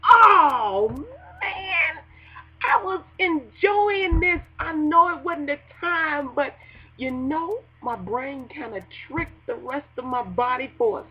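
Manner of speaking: a lightly hammed-up whining grumble; mock whine. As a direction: moan about the fun ending. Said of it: "You like".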